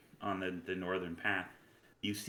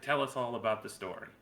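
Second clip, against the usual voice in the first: eager barkeep; 4 semitones higher than usual. Acted. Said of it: "he's like".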